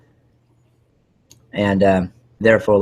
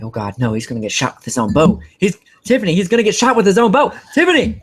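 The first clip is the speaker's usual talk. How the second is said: much higher and louder, laughing shout in disbelief; excited disbelief; 10 semitones higher, 6 dB louder than usual. Retold or imitated. Fan shouting to his wife at the TV, laughing and higher. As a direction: call out, laughing, to Tiffany. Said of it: "I'm like".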